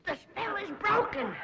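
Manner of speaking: solemn pronouncement. Acted. Dramatic pronouncement.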